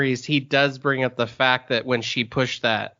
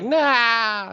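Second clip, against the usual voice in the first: startled cry; 10 semitones higher than usual. Retold or imitated. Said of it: "she's like".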